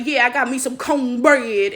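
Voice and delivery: slow, drawn-out mock Atlanta accent; imitated fake Atlanta accent. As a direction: stretch it into a put-on Atlanta accent. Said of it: "didn't nobody talk like that".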